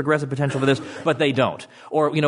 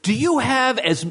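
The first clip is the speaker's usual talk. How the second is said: teasing challenge; 11 semitones higher, slower than usual. Retold or imitated. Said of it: "he'll get up there and say".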